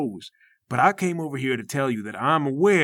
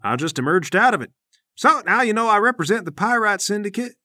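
syndicate rep voice; 3 semitones higher than usual. Acted.

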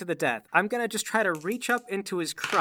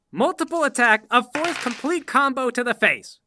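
building declaration; 2 semitones higher, 3 dB louder than usual. Acted. Player announcing escalating attacks in character.

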